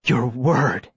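tight, scornful echo; angry scorn. Acted. Girl answering the mayor's promise, angry scorn. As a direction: throw the phrase back with contempt. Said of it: "her face is so angry".

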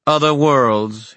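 slow, drawn-out musing. Acted. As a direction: savor the words thoughtfully. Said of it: "he mused".

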